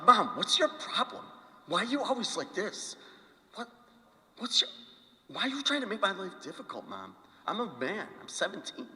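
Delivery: high-pitched, put-on teenage protest; whining teenager. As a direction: plead with mom like an exasperated teen. Acts out teenage self protesting to mom.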